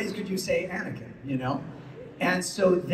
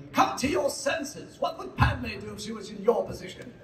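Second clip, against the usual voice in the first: Obi-Wan impression; 5 semitones higher, 3 dB quieter than usual. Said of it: "to his voice when he".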